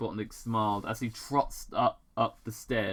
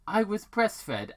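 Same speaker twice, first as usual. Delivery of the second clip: deadpan correction; 9 semitones higher than usual. Acted. Tom correcting.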